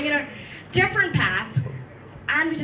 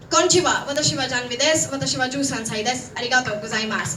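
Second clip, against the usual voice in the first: brisk spoken Japanese; quick Japanese self-introduction; faster than usual. Shown as a demonstration.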